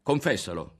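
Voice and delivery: put-on boy abruptly shouting at the girl; sudden shout. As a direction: bark it at her. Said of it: "gridò d'un tratto Berto".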